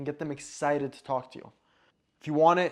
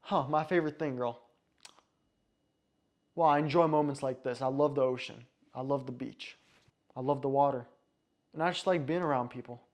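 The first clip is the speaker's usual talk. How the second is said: unhurried, taking time over each phrase; calm, laid-back answer with pauses between phrases; slow, relaxed answer. Shown as a demonstration. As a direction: lean back and let each line land slowly. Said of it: "You notice how slow I took that".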